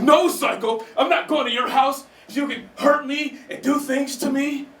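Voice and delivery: mock-prim woman turning him down; alarmed date. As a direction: refuse him like a wary date. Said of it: "she's like".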